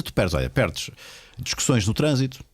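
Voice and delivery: usual speaking voice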